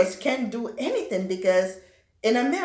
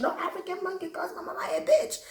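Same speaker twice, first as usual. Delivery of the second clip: put-on furious girl, faster; 10 semitones higher, 3 dB quieter, faster than usual. Angry big girl threatening.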